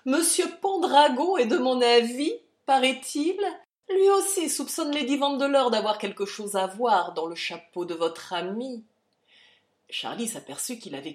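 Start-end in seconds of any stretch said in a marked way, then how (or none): 0.0-8.8 high, loud furious accusation; roaring accusation. Acted. General roaring at Hartley about the hat. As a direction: hurl the accusation.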